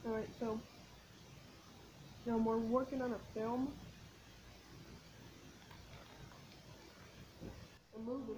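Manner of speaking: speaking with food in mouth; words between bites; talking while chewing. Real, not acted. Seen 1: Holds snack ring, lips pressed and chewing between phrases while talking.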